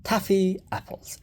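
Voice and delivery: put-on high, excited children's cheer; excited shout. A narrator's reading. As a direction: cheer like delighted kids. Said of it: "everybody shouted".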